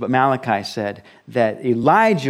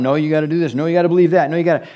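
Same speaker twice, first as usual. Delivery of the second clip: imitating a squabble, higher pitched; mock arguing; 3 semitones higher, 4 dB louder, much faster than usual. Believers debating who the prophet is, mock arguing. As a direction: rattle off competing objections, mildly hammed up.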